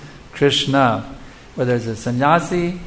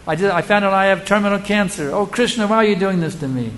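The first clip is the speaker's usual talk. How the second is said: mock lament; 5 semitones higher than usual. Devotee lamenting cancer diagnosis.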